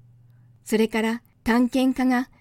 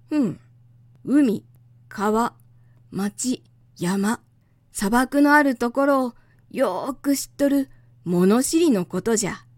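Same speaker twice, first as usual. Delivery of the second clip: lightly voiced old scholar lecturing; a hint of a proud old professor; creaky wise old man; slower than usual. Geographer explains his job.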